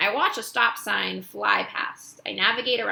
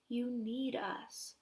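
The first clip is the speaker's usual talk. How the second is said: worried; 3 semitones higher, 12 dB quieter, much slower than usual. A narrator's reading. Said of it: "worry clouds Ivan's face".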